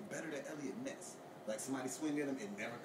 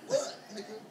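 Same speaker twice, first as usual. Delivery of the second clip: louder and higher, building outrage; escalating comedy rant; 9 semitones higher, 18 dB louder than usual. Real, not acted. Heated rant about forensics.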